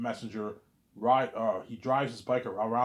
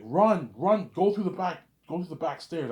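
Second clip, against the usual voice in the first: loud, higher cry to run; urgent shout; 5 semitones higher, 6 dB louder than usual. Retold or imitated. Messiah shouting at the narrator to run for the back stairs. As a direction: yell at him to flee now. Warning to flee.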